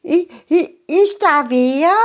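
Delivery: timid high mole voice; shy small creature asking; little mole voice. Acted. Mole character speaks.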